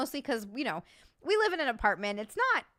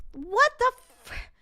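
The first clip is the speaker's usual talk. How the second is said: stunned whisper; 13 semitones higher, 8 dB louder than usual. Real, not acted. Stunned reaction.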